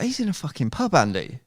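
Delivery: high, loud, comic certainty; emphatic insistence. Retold or imitated. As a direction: insist loudly, utterly convinced. Retelling his insistence to Andy.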